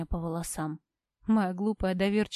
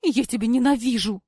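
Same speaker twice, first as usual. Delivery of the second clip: loud, higher desperate shouting; screamed hatred; 5 semitones higher, 7 dB louder than usual. A narrator's reading. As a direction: yell it as you are dragged out. Cora dragged away, screaming.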